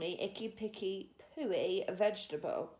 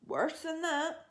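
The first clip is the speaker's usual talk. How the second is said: higher, slow giant cry; roaring giant; 7 semitones higher, 4 dB louder, slower than usual. A narrator's reading. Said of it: "cried the B F G, roaring".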